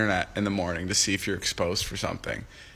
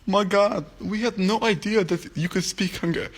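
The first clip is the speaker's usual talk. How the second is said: high, exaggerated American accent, much higher; 10 semitones higher than usual. Vlogger mocks fans' comments in an over-the-top American accent. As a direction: gush like an amazed American fan, American accent. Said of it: "that's how I imagined it".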